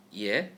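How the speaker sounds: Yeah rising in pitch; second tone. Shown as a demonstration. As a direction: lift Yeah like a question. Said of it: "into the second tone".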